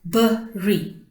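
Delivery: "Bury" broken as bu, ry; split into syllables. Shown as a demonstration. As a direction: say "Bury" in two separate syllables. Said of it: "Underline and pronounce them".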